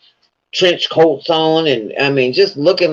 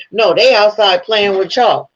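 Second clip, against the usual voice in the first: raised, mocking imitation of the wife calling about a dog; mocking wife's tone; 5 semitones higher than usual. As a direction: say it like she means the family dog. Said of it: "sound like she was talking about a fucking dog".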